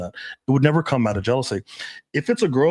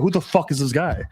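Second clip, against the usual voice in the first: fake jealousy; 4 semitones higher than usual. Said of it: "if I fake jealousy".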